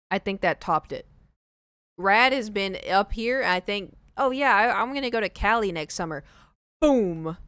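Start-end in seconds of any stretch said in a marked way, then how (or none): 4.2-6.2 bright mock-casual voice; mocking Cali people. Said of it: "I cringe when people are like". 6.8-7.4 loud emphatic boom. Real, not acted. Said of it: "emphatic knockout".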